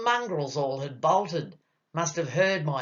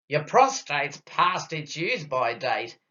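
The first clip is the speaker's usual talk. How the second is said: mildly cheerful pronouncement; happily pronounced. Acted. Doctor delivering bad news to his patient, happily pronounced. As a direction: announce it with a touch of glee. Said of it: "he happily pronounced".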